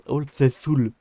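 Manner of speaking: put-on Old Faithful drawn out slowly in a French speaker's English accent; self-mocked English accent. Shown as a demonstration. Streamer reading a quest name to chat, self-mocked English accent. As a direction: say it slowly, proudly showing off a dubious English accent. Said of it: "avec mon superbe accent anglish".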